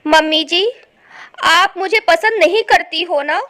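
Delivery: loud, hurt daughter-in-law; tearful. Acted. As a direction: accuse her through acted tears. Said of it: "सालनी फिर से रोने लगी और बोली".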